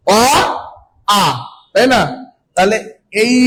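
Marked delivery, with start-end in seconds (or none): 0.1-1.2 অ short, then আ stretched and hit harder; weight falls on the second sound আ; stress on আ. Shown as a demonstration. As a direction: lean into the আ, keep অ light. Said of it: "অ থেকে আ তে আঘাত লাগছে বেশি".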